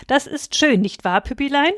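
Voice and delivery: high-pitched cooing question to a pet; cheerful. A narrator's reading. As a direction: chirp happily to your little dog. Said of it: "rief sie fröhlich". (fröhlich und verzückt)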